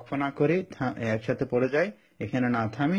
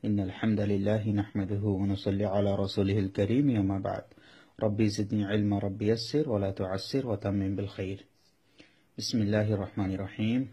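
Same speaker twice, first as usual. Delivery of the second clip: opening prayer; 2 semitones lower than usual. Acted. Teacher opening an online Quran class with a calm blessing. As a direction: recite the opening invocation calmly.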